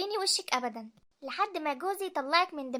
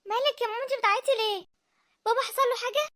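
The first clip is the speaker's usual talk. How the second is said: higher, quick, with a crying laugh; worried teary question; 6 semitones higher than usual. Acted. Daughter to her crying mother, high teary worried question. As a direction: catch her breath in alarm.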